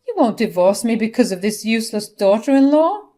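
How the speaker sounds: high, loud shocked protest; a mother refusing to be abandoned; outraged mother. Acted. Nina pleads with husband Carl.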